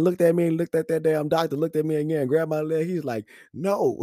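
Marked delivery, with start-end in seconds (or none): 3.5-4.0 put-on high-pitched kid's protest; pleading child. Son refuses another shot, pleading. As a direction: imitate a little boy begging off.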